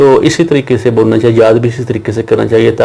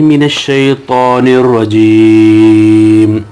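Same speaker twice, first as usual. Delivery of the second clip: slow, measured Quranic recitation; much slower than usual. Acted. Teacher opening the Qaida lesson with slow recitation. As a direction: recite the opening formulas slowly and reverently.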